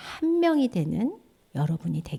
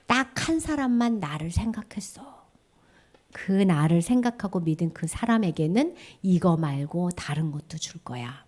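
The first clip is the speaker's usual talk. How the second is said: God speaking; 5 semitones lower than usual. Acted. God tells the children only one remembered, gently voiced God. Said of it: "하나님 말씀하셔".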